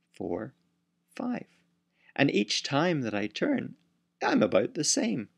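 a proud little starfish showing off. Acted. Starfish speaks in the story.

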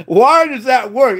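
emphatic, slow bafflement; baffled exclamation. Real, not acted. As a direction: stretch the question out in amazement. Baffled emphatic repeat of the question.

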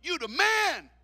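high, loud star-struck angels begging; excited fans. Acted. Angels crowd the brother for autographs, loud and excited. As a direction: mob him like a superstar.

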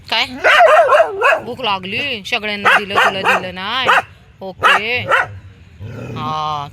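high, loud sing-song talk to dogs. Real, not acted. She asks her dogs to speak for the viewers, high sing-song baby talk.

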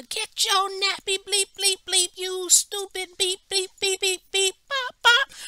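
high, loud screeching mock cussing; cussing mother. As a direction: scream insults at the little girl like the furious mother. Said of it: "was just calling her".

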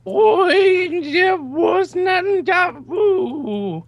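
high, slow, drawn-out Australian accent; loud, stretched-out attempt at Australian; mock Australian accent. Shown as a demonstration. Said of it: "but backwards in Australian accent".

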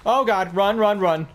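yelling while running away. Real, not acted. Fleeing the killer in game.

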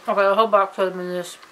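talking through a mouthful; words round a bite of chocolate; mouth full. Real, not acted. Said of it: "I'm talking about mouthful".

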